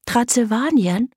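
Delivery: "Transsilvanien" echoed high in surprise; puzzled. A narrator's reading. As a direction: repeat "Transsilvanien" as a wondering question. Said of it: "wunderte sich Greta".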